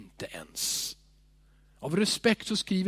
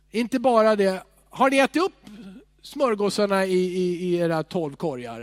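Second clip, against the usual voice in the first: jovial ribbing; 2 semitones higher, 5 dB louder than usual. Retold or imitated. Joking Jesus asks about bread.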